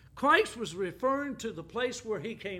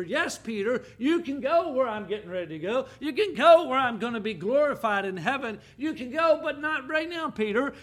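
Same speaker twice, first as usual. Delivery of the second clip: voicing Jesus; 3 semitones higher, 6 dB louder than usual. Voicing Jesus speaking to Peter.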